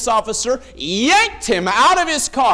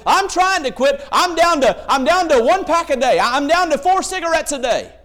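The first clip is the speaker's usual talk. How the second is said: proud smoker; 5 semitones higher than usual. Retold or imitated. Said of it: "they'll say".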